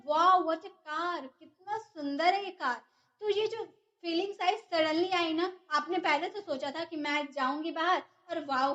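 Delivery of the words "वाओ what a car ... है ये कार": slow, delighted gasp of wonder; excited wow. Shown as a demonstration. Teacher acting out seeing a lovely car, amazed. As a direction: stretch the wow in awe. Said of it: "आपके मन में ऐसी feelings आए".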